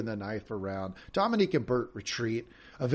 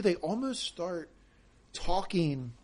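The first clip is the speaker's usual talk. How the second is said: slowed speech; 6 semitones higher, 4 dB quieter, slower than usual. Shown as a demonstration. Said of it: "you know what they almost do".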